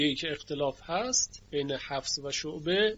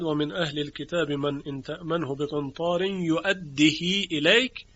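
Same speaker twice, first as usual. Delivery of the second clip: Quran recitation. Shown as a demonstration. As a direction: recite the verse in measured Quranic style. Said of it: "که شعبه خوانده است".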